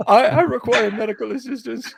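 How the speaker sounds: high, loud mock robot voice. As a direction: imitate the robot for the dog. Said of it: "It's like".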